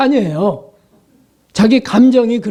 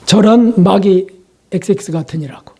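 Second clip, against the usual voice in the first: mock angry curse; 2 semitones lower than usual. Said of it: "막 이런 게 오르락하지".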